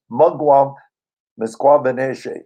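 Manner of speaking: "Mugwump Misquabanege" said carefully, a pause between the names; name pronounced in Ojibwe. Shown as a demonstration. Elder introducing himself in his language, pronouncing "Mugwump Misquabanege" carefully. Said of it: "my name is pronounced".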